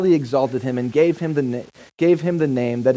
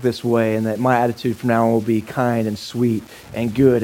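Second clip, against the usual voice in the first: low, prim apology in a reformed parrot's voice; a hint of a lower, overly polite parrot; lightly voiced polite parrot; 5 semitones lower than usual. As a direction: play the chastened bird, low and formal.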